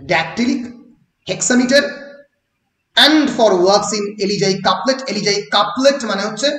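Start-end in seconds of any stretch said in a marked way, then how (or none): 0.1-1.8 Dactylic hexameter said slowly, each part clear; teacher repeating the term for notes; spelled-out term. Shown as a demonstration. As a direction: give the term weight, syllable by syllable. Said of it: "এই dactylic hexameter-এ লেখা".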